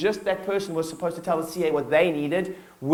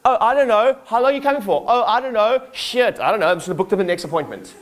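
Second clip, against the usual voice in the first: higher, louder flustered receptionist, mock panic; clueless Nigel; 3 semitones higher, 4 dB louder than usual. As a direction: ham up a lost front-desk guy who knows nothing. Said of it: "Nigel, who doesn't know anything, and is like".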